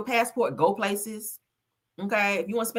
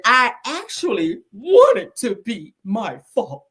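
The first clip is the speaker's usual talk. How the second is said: slow, teary, hammed-up whine imitating her; mock Drew crying; 3 semitones higher, 6 dB louder, slower than usual. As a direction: sob it out like a dramatic actress mocking her confession. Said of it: "She is so dramatic".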